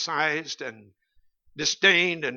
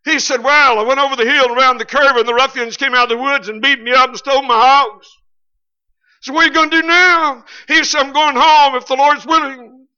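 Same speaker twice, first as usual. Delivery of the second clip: country folks talking; 9 semitones higher, 11 dB louder than usual. Retold or imitated. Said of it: "his neighbor said".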